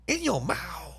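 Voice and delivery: quiet stunned echo; hushed disbelief. Real, not acted. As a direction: let it sink in under your breath. Repeating shocking detail in disbelief.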